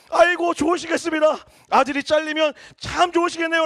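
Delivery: loud, mocking retort; sarcastic shout. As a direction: shout back with biting sarcasm. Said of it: "라고 얘기해버리고". (아버지에게 소리치며 비꼬는 아들)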